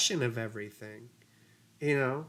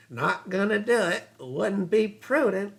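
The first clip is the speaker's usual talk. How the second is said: lightly voiced Dana Carvey Bush, slow and clipped phrases; a hint of the elder Bush, drawn out; George H W Bush impression; 4 semitones higher than usual. Host imitates Carvey's elder Bush for chat, lightly voiced. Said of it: "That's more Dana Carvey doing George H W Bush".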